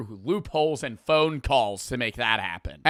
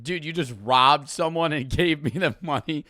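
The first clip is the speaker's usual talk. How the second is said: laughing disbelief. Retold or imitated. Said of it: "you'd be like".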